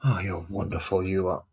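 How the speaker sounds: mock praise with a sarcastic edge. Real, not acted. Grumbling at the fiddly models being painted, sarcastic. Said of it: "I'm being sarcastic at".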